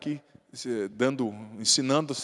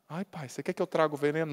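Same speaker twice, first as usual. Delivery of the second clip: a hint of a timid son, softer and quick; lightly voiced timid son, softer; meek son; 2 semitones lower, 6 dB quieter, faster than usual. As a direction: rush it out like a nervous boy. Son answering strict father.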